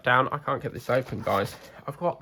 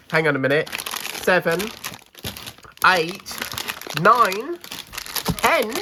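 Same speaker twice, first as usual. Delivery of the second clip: shrieking jackpot winner; 4 semitones higher than usual. Real, not acted. Counting gifts louder and louder.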